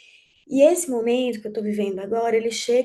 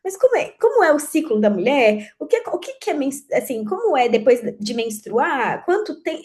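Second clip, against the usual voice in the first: lightly voiced little girl, higher questions; imitating curious child; 4 semitones higher, 3 dB louder than usual. Ten-year-old daughter asking about the female cycle, lightly imitated curiosity. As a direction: reel off a child's eager questions, pitched up. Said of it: "a pequenininha de dez anos perguntando muito".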